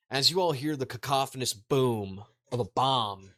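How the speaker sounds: ordinary talk, nothing marked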